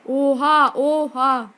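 loud startled exclamation; shocked. Real, not acted. Gamer shocked by a sudden attack, startled. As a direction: gasp out in disbelief.

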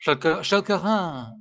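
Schelkerane with a French throaty R and open ending; French pronunciation. Shown as a demonstration. Retrying the name after hearing that it's French, French accent. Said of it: "That's French".

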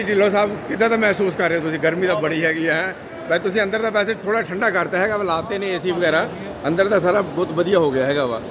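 ordinary delivery

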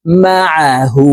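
slow "মা আ হু", squeezing "আ" in the throat; mid-throat ayn. Shown as a demonstration. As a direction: press "আ" from mid-throat, then stretch "হু". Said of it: "হলকের মধ্যখান থেকে চাপ দিয়ে". ("আ" হলকের মাঝখান থেকে চাপ দিয়ে উচ্চারণ)

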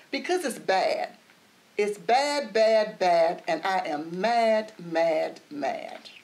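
loud, stamping little-girl tantrum on bad and mad; cross child. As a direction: pound out each bad and mad like a sulky kid.

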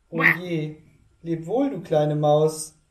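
höher und lauter gerufen; gerufener Abschied. Acted. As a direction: ruf es hastig zum Abschied. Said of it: "rief sie". (Schlange ruft der Maus zu)

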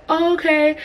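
high, airy "oh, okay"; sweet mom accepting it, up high; lightly voiced mom. Mom replies.

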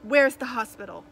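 loud bark over the shoulder; barked question. A narrator's reading. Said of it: "Cap barked over his shoulder".

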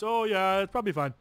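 breezy mock doctor brushing it off; Doctor Peterson. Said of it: "so he goes".

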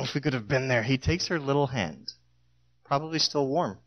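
usual speaking voice

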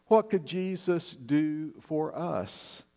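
slow and deliberate, leaning on "What"; preacher's slow emphatic appeal; slow, weighty question. Shown as a demonstration. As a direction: let the question "What could Jesus do for us?" hang, slowly. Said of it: "repeated question, slowed for emphasis".

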